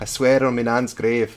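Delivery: Liverpool Scouse accent. Discussing what a real Scouser would say, the speaker tries it in a Scouse accent. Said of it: "nice attempt at a Scouse accent".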